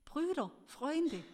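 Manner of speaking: hoher, langsamer Hilferuf; langgezogener Ruf. A narrator's reading. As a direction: rufe die Freunde gedehnt herbei. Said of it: "rief er". (langsam gerufen, hoch und gedehnt)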